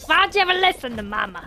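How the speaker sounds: quick, hammed-up mama telling-off; mock scolding mama. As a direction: play a fed-up mother, lightly. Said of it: "Like you're yelling at a baby".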